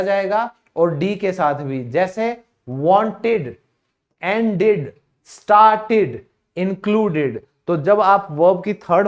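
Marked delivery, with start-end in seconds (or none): 1.8-7.4 "wanted" with a clear -ed syllable; spaced-out list, -ed sounded; pronounced -ed. Shown as a demonstration. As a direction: say "ended", "started" with the e sounded. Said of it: "ई is pronounced after टी".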